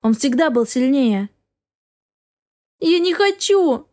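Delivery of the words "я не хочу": much higher, slow tearful plea; crying out through tears. Acted. Wife pleading through tears with her husband. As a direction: stretch it out, weeping. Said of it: "воскликнула сквозь слёзы".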